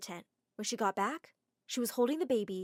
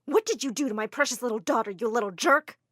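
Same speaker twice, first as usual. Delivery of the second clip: angry mother; 6 dB louder than usual. Acted. Like a raging bull.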